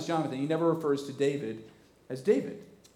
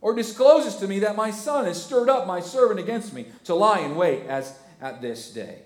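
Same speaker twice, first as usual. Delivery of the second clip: raised, louder self-pitying king; whining Saul; 6 semitones higher, 5 dB louder than usual. Acted. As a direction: plead like a sulking king. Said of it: "What a pitiful scene".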